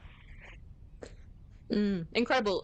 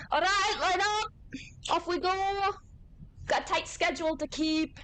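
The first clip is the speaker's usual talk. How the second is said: shouting drill instructor; 10 semitones higher than usual. Acted. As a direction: call the recruits into line. Instructor calling recruits to line up.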